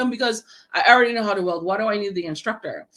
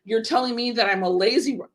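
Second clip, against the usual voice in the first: indignant outburst; 3 semitones higher than usual. Retold or imitated.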